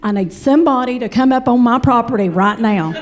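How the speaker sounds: steady Appalachian twang on property right now. Retold or imitated. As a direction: savor her words slowly. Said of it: "repeated slower".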